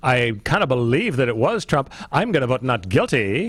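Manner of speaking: put-on lightly done Valley Girl accent; a hint of a Valley Girl juror. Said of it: "are you doing the Valley Girl accent?".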